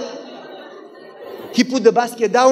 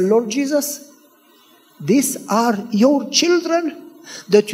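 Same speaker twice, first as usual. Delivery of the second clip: slow, pleading prayer; earnest prayer; slower than usual. Retold or imitated. Neighbor praying over a sleepless woman, earnest. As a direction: plead with God in measured, drawn-out phrases.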